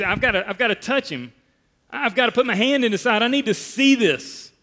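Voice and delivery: fast, rising, a touch of urgency; a doubter who must see for himself; eager Thomas. Retold or imitated. Pastor voicing doubting Thomas, quick and mildly urgent. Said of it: "what does he say".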